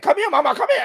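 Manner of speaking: mock aggressive friend. Friend grabbing a woman's hand, mock catcall. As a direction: coax her over like a pushy guy. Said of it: "They would be like".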